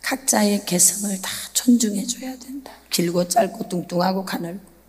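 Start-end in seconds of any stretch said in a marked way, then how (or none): none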